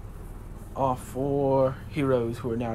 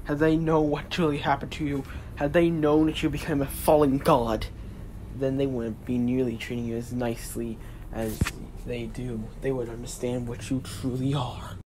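higher, loud, pleading god; a god warning his brother; 3 semitones higher, 4 dB louder than usual. Acted.

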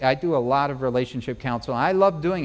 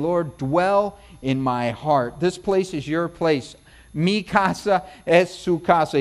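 slow, open-hearted invitation to the Lord; a host throwing wide the door, slow and sincere; welcoming prayer; slower than usual. Pretend. Throwing the door open to God, slow and welcoming.

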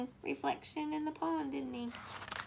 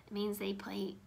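soft whispered aside; whispering; 4 semitones lower, 7 dB quieter than usual. Real, not acted. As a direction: whisper the explanation. Teacher explains softly.

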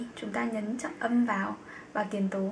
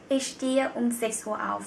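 slow example sentence; slower than usual. Shown as a demonstration. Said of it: "Ví dụ".

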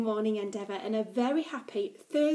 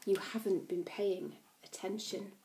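hushed teasing whisper; conspiratorial aside to the class; 2 semitones lower, 9 dB quieter than usual. Real, not acted. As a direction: lean in and whisper it.

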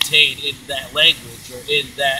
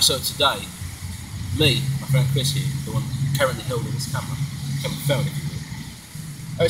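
put-on character speaking in an affected British accent. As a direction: hold a mock British voice. Put-on British character voice held throughout.

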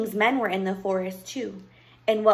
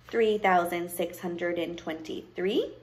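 slow, measured count with a rising last word; witch counting; 3 semitones lower, slower than usual. Acted. Witch counts her pieces of gold, absorbed. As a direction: count coins slowly, unhurried.

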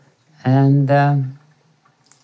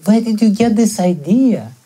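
hurt, higher-pitched questioning; pained protest; 4 semitones higher than usual. Retold or imitated. Bharata questions his mother's idea of him, pained protest. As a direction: protest as if wounded by the accusation. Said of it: "that's his pain".

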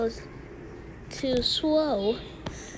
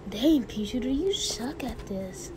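whispered Cactus taunt; 6 dB quieter than usual. Pretend. Cactus teasing.

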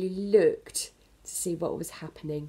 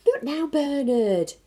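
higher, louder, slow dismissive mother; busy mum; 8 semitones higher, 7 dB louder, slower than usual. Acted. Mum brushes off Bernard, too busy to listen. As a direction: wave him away without looking.

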